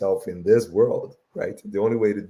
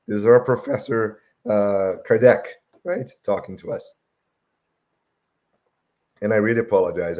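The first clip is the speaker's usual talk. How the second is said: hoarse voice; 5 dB louder than usual. Real, not acted. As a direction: voice going hoarse, strained. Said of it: "I might be losing my voice".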